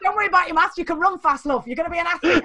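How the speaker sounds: mock a teacher who writes him off; patronising teacher. Mimicking a teacher telling a pupil not to worry about maths. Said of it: "one teacher did that, say that to me".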